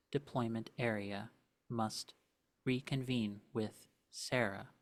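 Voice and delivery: flat, quiet machine announcement; robotic voice. Acted. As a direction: read it like a cold warning system. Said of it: "a robotic voice".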